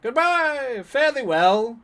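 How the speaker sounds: panicky, pitched high, fleeing politely; high flustered goodbye. Retold or imitated. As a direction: squeak out a hasty farewell. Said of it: "Just like".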